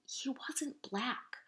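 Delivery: hushed, breathy whisper. Acted. Classmate whispering a secret doubt to Grace, whispered. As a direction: whisper it behind her hand. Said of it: "whispered Natalie".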